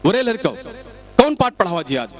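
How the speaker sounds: bossy teacher. Acted. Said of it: "बच्चों से क्या कहा".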